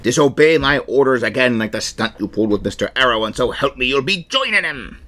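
light pirate captain threat; a hint of a stern pirate. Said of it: "I'm gonna do a pirate voice".

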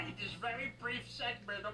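high-pitched put-on character voice; the Watcher. Shown as a demonstration. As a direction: lift it well up into a made-up character. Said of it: "this was the voice I came up with".

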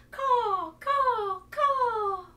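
loud, high cawing crow. Shown as a demonstration. Teacher cawing loudly like a crow. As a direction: caw out like a crow.

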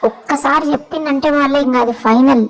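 cheeky sulky pet voice; a lightly put-on sassy pet; voiced pet. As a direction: talk back like a spoiled pet. Pet talks back to owner.

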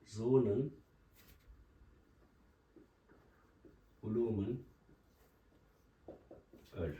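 Zonun, bulumun, öl read word by word with long pauses; slow syllable demo. Shown as a demonstration. Teacher dictates Zonun bulumun öl word by word. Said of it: "O da şöyle yazılır".

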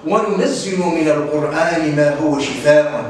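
a slow recited verse; Quran recitation. Acted. Teacher quoting the verse to pupils in recitation. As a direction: intone the verse reverently. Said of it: "قال تعالى".

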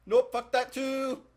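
high, loud shout of refusal; loud yell. Real, not acted. Streamer yelling at an enemy in the game, loud and high. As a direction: scream it away from the danger.

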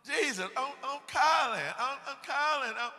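high, loud calling out to Jesus; desperate calling. Retold or imitated. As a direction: call out to Jesus at full force. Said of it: "what they're gonna say to Jesus".

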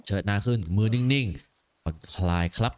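low, slow father voice; steady the boy's aim, low and slow; father coaching his son's bow shot, low and slow; calm coaching father. Acted.

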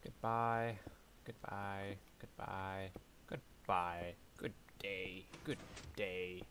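mock old-fashioned farewells, lightly voiced; a hint of a prim old gent saying goodbye; playful old-fashioned send-off to the blocks. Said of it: "I'm gonna call it old fashioned".

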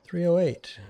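high, squeaky call of "Three oh eight"; squeaky readout. Acted. Spotting ammo on the ground, squeaky high call. Reading ammo label aloud.

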